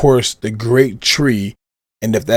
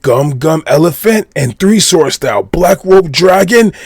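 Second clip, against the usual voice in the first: rising, higher-pitched attack announcement; hyped attack call; 4 semitones higher, 3 dB louder than usual. Retold or imitated. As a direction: hype up each move name as it lands. Hyped roll-call of attack names.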